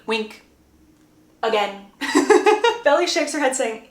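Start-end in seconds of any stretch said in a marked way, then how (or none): 2.0-2.8 real short high laugh. Real, not acted. Narrator amused by her own repeated hint, laughing. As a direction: break into a brief high giggle.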